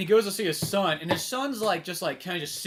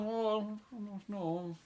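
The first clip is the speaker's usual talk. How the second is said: mock dismay; 9 dB quieter, much slower than usual. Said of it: "everybody's kinda like".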